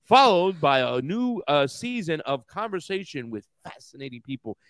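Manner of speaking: reading an ad in a lightly mocking tone; mild mock ad read; mock podcast promo. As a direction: play the podcast plug like a mocking announcer. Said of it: "Subscribe today on iHeartRadio".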